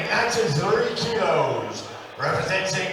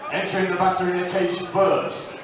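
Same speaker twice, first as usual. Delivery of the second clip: ring announcer. Real, not acted. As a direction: announce the fighter, stretching out the name. Ring announcer introduces fighter.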